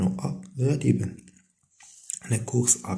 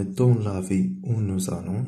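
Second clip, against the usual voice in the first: the French read out slowly and carefully; slow dictation reading; much slower than usual. Shown as a demonstration. Teacher reading the French example to pupils, slowly. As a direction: read it so pupils can copy along.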